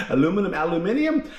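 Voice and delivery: "aluminum" then "aluminium" with a laugh; self-correcting pronunciation. Real, not acted. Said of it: "I don't know how to do, uh, say it".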